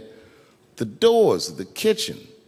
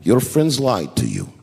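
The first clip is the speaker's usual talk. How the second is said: lower, calm and even; gently; 6 semitones lower than usual. Retold or imitated. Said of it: "he stopped me gently".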